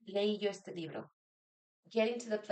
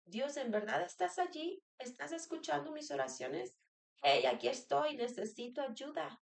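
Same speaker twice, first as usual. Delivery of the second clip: pleading to God; 6 semitones higher than usual. Retold or imitated. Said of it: "dudamos y decía".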